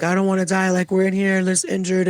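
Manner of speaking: imitating her high, excited plea; high-pitched retold cry to be rescued. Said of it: "prematurely excited".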